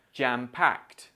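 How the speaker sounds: JAM-PACKED with the final ED said as t; t-sound ending. Shown as a demonstration. Teacher models the phrase for learners, final t sound. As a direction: end JAM-PACKED on a crisp k plus t. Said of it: "this E D sound sounds like t".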